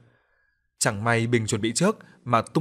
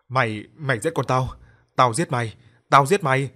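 murderous threat; 5 dB louder than usual. Acted. Father threatening the man who killed his daughter, furious yell. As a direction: build into a killing rage.

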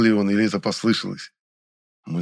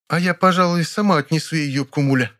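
radiant smile; 7 semitones higher than usual. A narrator's reading. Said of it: "лучезарно улыбнулась".

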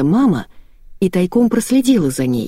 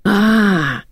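acted yell; 4 semitones higher than usual. A narrator's reading. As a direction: let out a restrained mock scream. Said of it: "заорала Евгения". (протяжный негромкий вопль)

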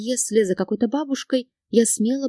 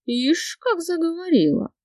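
hissing; 8 semitones higher than usual. A narrator's reading. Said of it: "зашипел Юрий".

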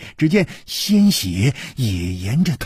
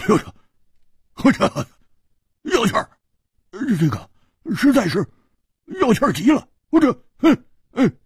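giggling; 11 semitones higher than usual. A narrator's reading. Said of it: "咯咯地笑着说".

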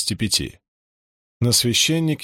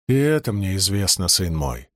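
voice breaking; 4 semitones lower than usual. Acted. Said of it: "сказал отец Рэ срывающимся голосом".

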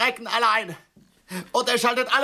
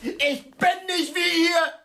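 pathetic; 3 semitones higher than usual. Acted. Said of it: "nicht ganz so pathetisch".

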